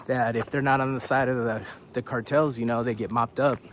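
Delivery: winded and breathing hard; short of breath from the altitude. Real, not acted. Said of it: "I'm out of breath".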